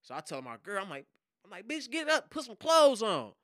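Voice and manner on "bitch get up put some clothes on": louder, higher urgent command; urgent retold order. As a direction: hurry her up out of bed. Urgently waking his girlfriend.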